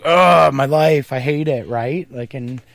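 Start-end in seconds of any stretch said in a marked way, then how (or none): 0.0-1.7 higher, louder, slowed mock moan over a small complaint; mock whining. Host mocking people who complain about work, mock whine. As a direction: ham up a petty grumble. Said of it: "and go like".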